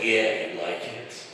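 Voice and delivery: slow, low superhero come-on; Batman. Retold or imitated. Husband checks wife likes it, mock superhero seduction. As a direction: drag it out in a mock vigilante voice. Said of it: "was Batman".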